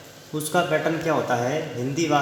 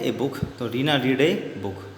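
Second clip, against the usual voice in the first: slow, careful answer sentence; slow answer read; 2 semitones lower, slower than usual. Shown as a demonstration. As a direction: read the answer out slowly for the class. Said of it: "एक किताब क्या बोलते हैं". (धीरे-धीरे उत्तर पढ़ना)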